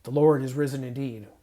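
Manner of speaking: firm, flat-toned statement of fact; routine statement. Shown as a demonstration. Believer going through the motions, matter-of-fact. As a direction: say it as just the facts. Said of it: "just the facts".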